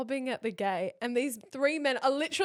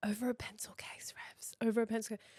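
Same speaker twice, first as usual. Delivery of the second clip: soft, breathless whisper; hushed mock hyperventilating; 7 dB quieter than usual. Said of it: "proper hyperventilating".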